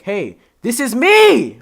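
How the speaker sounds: high, loud and slow; a bright hello; cheery hello. Pretend. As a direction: greet them brightly. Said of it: "be like".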